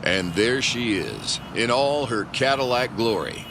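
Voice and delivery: hammed-up pulp narrator; dramatic narration. Narrator describing the villain's charging Cadillac, pulpy dramatic narration. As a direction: paint the showdown like a cheesy thriller.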